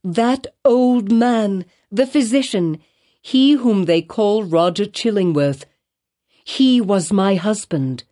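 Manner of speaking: high, urgent pleading, rising to a near cry; pleading confession. A narrator's reading. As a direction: beg forgiveness while confessing the truth. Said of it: "cried she".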